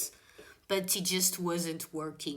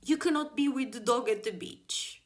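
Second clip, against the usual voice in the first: lightly mimicked officer, pitched higher; mock-official, raised-pitch order; authoritative policeman; 5 semitones higher than usual. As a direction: imitate an officer laying down the rule. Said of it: "very serious and very, like, authoritative".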